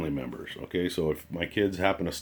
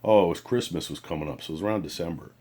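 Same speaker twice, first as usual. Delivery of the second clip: imitating a depressed friend; 2 semitones lower, 3 dB quieter than usual. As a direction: mimic a buddy sounding defeated about money. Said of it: "You sound like you're depressed".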